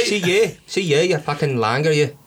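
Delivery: put-on Cork jibe; rough impression of a Cork local; mock Cork accent. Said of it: "I just impersonate people that I know".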